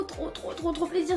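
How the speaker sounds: whispered. Real, not acted. Whispered repeat in outro.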